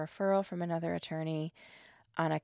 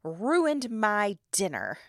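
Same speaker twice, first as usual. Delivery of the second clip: rude man's line; 4 dB louder, much slower than usual. Retold or imitated. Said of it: "he said".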